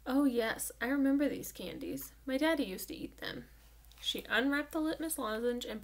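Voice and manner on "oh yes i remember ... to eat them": lightly voiced reminiscence, pitch a touch higher; Gloria, reminiscing. A narrator's reading. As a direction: recall it fondly, lightly in character.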